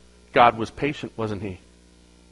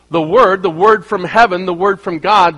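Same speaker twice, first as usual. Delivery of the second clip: louder, hammering the word; preaching emphasis; 3 semitones higher, 5 dB louder than usual. Real, not acted. Preacher driving home the word from God, loud.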